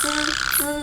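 จื้อ as a hissed ts; tongue-tip ts in จื้อ, not Thai j; Mandarin z sound. Shown as a demonstration. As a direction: isolate Chinese z in จื้อ, held on the hiss. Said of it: "แต่ภาษาจีนมันจะออก".

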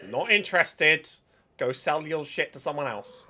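loud high brush-off; loud dismissive. Real, not acted. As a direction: wave off the seller loudly. Dismissing the merchant loudly.

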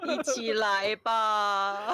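slow, eerie, drawn-out ghost call; ghostly wail. Pretend. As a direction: beckon like a lurking ghost. Voicing ghosts luring player.

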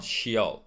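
SHEOL as two sounds, "shee-ol"; mispronounced ending. Shown as a demonstration. Teacher showing the wrong ending, sheol in two syllables. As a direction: draw out "sheol" slowly. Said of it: "it's not sheol".

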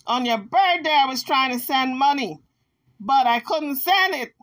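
lightly voiced Jaguar making excuses; imitating Jaguar's excuse. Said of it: "So Jaguar said".

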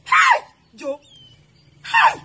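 very high crying shout; anguished wail. Acted. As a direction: wail his name in despair. Wife wailing over cheating husband.

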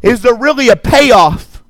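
full-voiced preacher declaring over the crowd; preaching. Pastor exhorting the congregation, preaching. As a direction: preach it with rising conviction.

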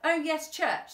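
dad faking excitement about church; fake excitement. A narrator's reading. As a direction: pretend to be thrilled and fail. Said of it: "trying to sound a little bit more excited and failing miserably".

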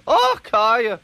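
high, loud exasperated burst; angry outburst. A narrator's reading. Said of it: "Donald burst out".

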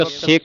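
ਸਿੱਖ said heavily with doubled ਖ; heavy doubled consonant. Shown as a demonstration. Teacher models the verse slowly, ਸਿੱਖ with heavy ਖ. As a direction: hold before the ਖ in ਸਿੱਖ, then release. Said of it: "ਇਸ ਨੂੰ ਭਾਰਾ ਉਚਾਰਨ ਕਰਨਾ ਹੈ".

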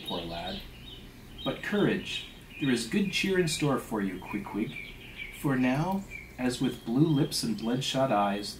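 measured, theatrical storytelling voice; story narration. A narrator's reading. Narrator reading a whaling tale aloud, story narration. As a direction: read it out with deliberate, rolling phrasing.

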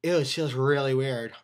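speaking around lip bulge. Real, not acted. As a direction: dip tucked in lip. Seen 0: Placed something from tin into lip earlier; dark matter in mouth later.

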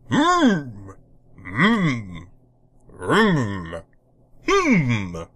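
cheerful humming; loud humming. Acted. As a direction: hum a tune while scrubbing. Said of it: "The tick hummed loud enough".

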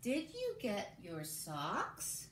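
put-on very slow, each word set apart for young writers; slow dictation. Shown as a demonstration. Teacher dictating the sentence to the class, very slowly. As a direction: read it out word by word so kids can follow. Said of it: "Say it with me one more time".

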